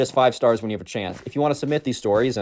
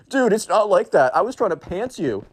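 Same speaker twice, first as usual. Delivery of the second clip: higher, slowed, whiny protest; defensive emo kid; 8 semitones higher than usual. Retold or imitated. Emo kid denying Hank's accusation, whiny and high. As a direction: protest it's not like that, teen whine.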